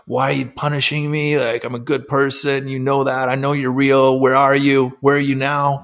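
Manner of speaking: half-hearted retold scream at God; retold plea. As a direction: plead upward without truly shouting. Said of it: "I started screaming at God".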